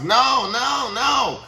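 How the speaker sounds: high mock refusal. Mock rejection of advice.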